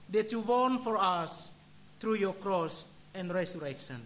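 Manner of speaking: hushed, reverent closing prayer. Acted.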